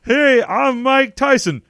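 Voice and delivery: high, slow put-on British-ish voice; a silly impression of Mike Tyson; mock Mike Tyson. Improv player introducing himself as Mike Tyson in a put-on British accent. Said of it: "Mike Tyson has a British accent".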